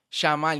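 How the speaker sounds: Llamar said shamal, sh start, L ending; wrong pronunciation. Shown as a demonstration. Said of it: "nadie dice llamar".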